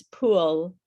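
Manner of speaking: "pool" with the final l clearly sounded; fully pronounced L. Shown as a demonstration. Teacher explaining the final L to student, clear model. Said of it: "And I think the L is the".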